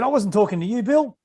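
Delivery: high-pitched protesting player; imitated indignant protest; retold indignant retort. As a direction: act out a player's touchy comeback, pitch climbing. Player's retort to referee, acted out.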